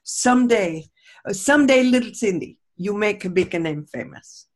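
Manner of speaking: put-on doing a modest, imperfect Czech accent as Grandpa. Granddaughter imitates Czech grandpa's blessing in Czech accent. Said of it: "but that strong Czech accent".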